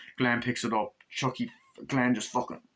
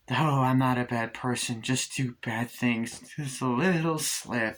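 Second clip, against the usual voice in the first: slow, eerie sweet voice; creepy Glenda; slower than usual. Retold or imitated. Glenda excusing the murder, slow and eerie. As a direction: say it slowly with a creepy innocence. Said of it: "she's like".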